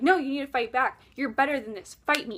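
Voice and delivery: loud, pushing demand; urging loudly. Retold or imitated. Satan urging her to fight.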